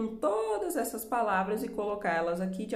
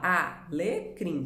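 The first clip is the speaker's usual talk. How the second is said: "Alecrim" slowly split a, le, crim; syllable by syllable; much slower than usual. Shown as a demonstration. Teacher shows pupils how to split syllables, "Alecrim" slowly divided. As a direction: give "Alecrim" three separate beats. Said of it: "Quantas sílabas?".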